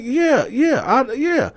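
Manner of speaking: very high, flustered yeahs; man flustered about the white woman, high; stammering boyfriend. Retold or imitated. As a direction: stumble over it. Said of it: "he was like".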